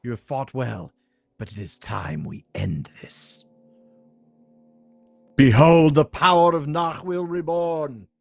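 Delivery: proud, menacing evil sorceress; villain sorceress voice. Acted. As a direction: lord it over the hero, coldly. Sorceress declares her triumph.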